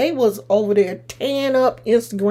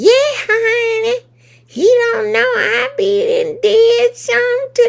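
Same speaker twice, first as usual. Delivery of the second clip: put-on very high, elderly old-lady voice; 14 semitones higher, 4 dB louder than usual. Recalling an old woman on a panel last night, imitating her great-grandma voice. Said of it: "she had one of them great grandma voices".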